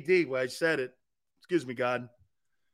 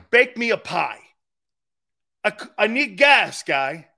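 retold aggravation; 4 semitones higher, 6 dB louder than usual. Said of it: "I'm very aggravated".

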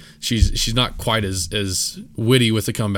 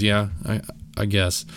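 sullen reply. Retold or imitated. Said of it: "Just like that".

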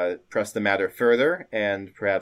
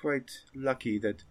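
witch; 3 semitones higher, 5 dB quieter than usual. Acted. Witch leans in and says.

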